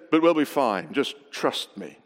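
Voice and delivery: imitating a calm, reassuring skipper. Sailor friend reassuring his nervous passenger, very calm. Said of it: "very calmly Tim said".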